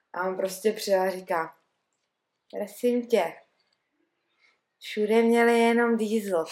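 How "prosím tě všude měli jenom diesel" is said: put-on voice with a Czech accent. Speaker retells what a man said after arriving late, imitating how he talks. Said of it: "A já to normálně budu muset předvíst, jak on mluví".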